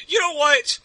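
sarcastic speechifying, driving each point home; indignant rant. Acted. Guard's imagined retort to officer over an oil leak, indignant.

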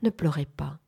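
apaisant, un peu plus bas, très doux; voix très douce. Acted. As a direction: consoler tout doucement. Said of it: "dit-il d'une voix très douce". (voix très douce qui console)

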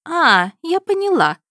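high, loud demanding princess; indignant princess. A narrator's reading. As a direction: demand answers like a spoiled princess.

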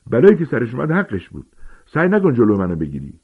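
panting angry warning; breathless defiance. Acted. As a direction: fling it at him defiantly.

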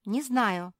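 high, loud little squeal. A narrator's reading. Pug answering her friend in the cellar, squealing. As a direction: squeal it crossly. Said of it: "взвизгнула Марсия".

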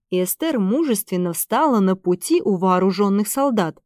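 plain reading voice

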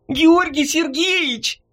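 high, slow delighted call; joyful cry. A narrator's reading. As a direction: burst in calling out with joy. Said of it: "с радостным криком ворвалась". (радостный возглас)

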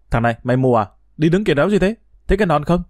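put-on a bully snapping at a clumsy new kid; angry bully. Schoolyard bully shouting at the narrator, furious.

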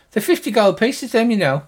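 name the price in a high character voice; haggling healer. Acted. Healer tells the adventurers her price, high loud haggling voice.

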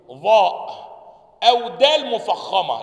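ضاء said like a heavy dal, loud; common wrong dad. Shown as a demonstration. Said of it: "بينطقها إيه؟". (تقليد النطق الخاطئ للضاد)

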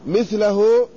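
مثله as mithlahu, first vowel i; مثله with kasra on the mim; vowel demo. Shown as a demonstration. Teacher showing students the first form: مثله as mithlahu. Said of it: "فلو قلنا مثلث العين".

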